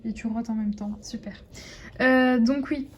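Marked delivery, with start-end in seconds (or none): 0.0-1.4 whisper. Real, not acted. Whispered remark to the dog.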